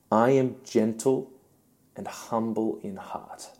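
unforced gentleness, softening at the end; gentle, humble voice. Acted. Gentle answer set against mighty boast.

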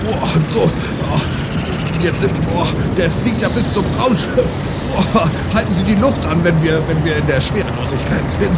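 high, loud pompous captain; Captain Dirk voice. Acted. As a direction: play the bold space captain.

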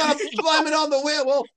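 high, loud unhinged voice; crazed villain voice. Retold or imitated. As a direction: play him gleefully unhinged. Voicing crazed Marcus.

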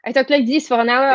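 light French accent. Shown as a demonstration. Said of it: "I had a French accent".

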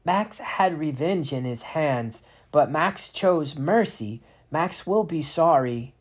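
a fretful spriggan, slow and high; small creature voice. A narrator's reading.

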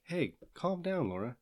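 slow, soft, high-starting placation; gently mock-placating husband; imitated calming down. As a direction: imitate a partner soothing, drawn out and soft. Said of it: "When he says".

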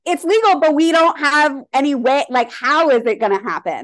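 baffled mock quote. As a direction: squeak it out like nobody knows the plan. Mocking confused official legalization.

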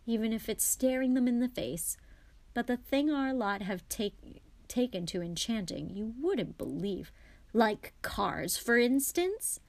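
lightly voiced father, lively and rambling; a hint of an animated dad; chatty wizard father. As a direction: explain it with exasperated amusement, pitch bobbing up on key words.

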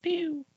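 a very high, soft little "pew"; high pew sound effect. Pretend. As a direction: zap a tiny laser pew. Sound effect between segments.

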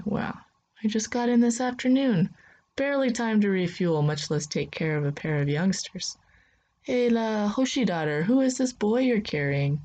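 grumbling old spacer, a hint of age; old man Kiros. Old pilot to Chiyoko, lightly voiced grumbling old man.

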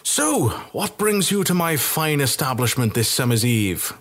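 a hint of a cheerful tavern keeper welcoming guests; jovial innkeeper. Tavern keeper Balthar greets guests.

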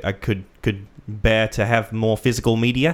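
a light attempt at an Australian accent; Aussie accent. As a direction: play a mock Aussie bloke, half-hearted. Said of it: "It was my attempt at an Aussie accent".

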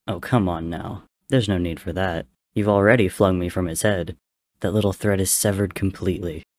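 mocking taunt. Mocking god taunts the heroes.

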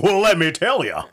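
imitated self-important army man; boastful sergeant. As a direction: launch proudly into your own story. Sergeant eagerly starts boasting.

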